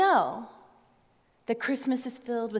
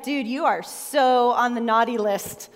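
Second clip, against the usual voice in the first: laughing tease; 4 dB louder than usual. Retold or imitated. Mock scolding the cursing driver.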